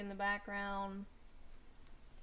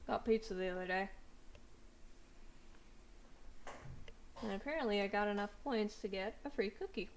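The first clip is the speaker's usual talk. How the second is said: chewing while talking; faster than usual. Real, not acted. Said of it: "Sorry for the chewing noises".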